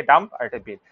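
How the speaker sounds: "ডাম্প" and "বেল" as two separate beats; syllables shown separately. Shown as a demonstration. Teacher showing students the two syllables, "ডাম্প" then "বেল" separately. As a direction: set "ডাম্প" apart from "বেল". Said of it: "দুটো syllable".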